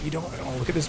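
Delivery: ordinary talk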